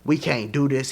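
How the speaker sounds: a hint of a smooth R&B singer talking low; an R&B singer voice. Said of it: "his R&B singer voice".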